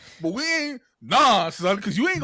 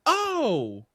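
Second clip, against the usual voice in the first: mock sheepish reply; 9 semitones higher than usual. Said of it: "she was like".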